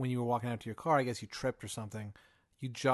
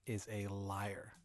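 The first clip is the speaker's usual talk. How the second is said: ominous passenger. Acted. Mysterious passenger gives a warning.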